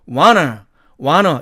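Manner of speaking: want to reduced to wanna, wa-nuh; wanna reduction. Shown as a demonstration. Teacher models the native reduction for learners. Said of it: "wanna로 발음이 되는 겁니다".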